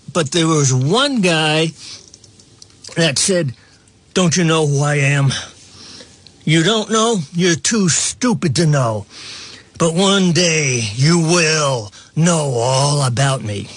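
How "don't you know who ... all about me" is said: a mild imitation of a menacing boast to the reporter; ominous. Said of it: "it was very ominous".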